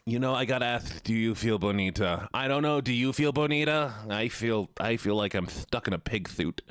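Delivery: lisping nerd; silly nerd with a lisp. Pretend. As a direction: talk with a put-on nerdy lisp. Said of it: "I still have this voice more".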